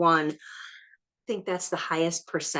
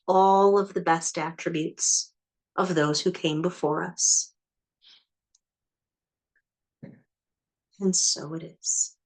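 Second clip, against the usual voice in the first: prayerful invocation. Acted. Healer calling in blessings from the ancestors, solemn and earnest. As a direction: call the blessings in like a ceremony.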